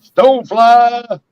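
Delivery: high, long drawn-out holler; calling out a greeting. Real, not acted. Host hailing a viewer named Stonefly, drawn-out high call. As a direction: holler the name high and stretch it right out.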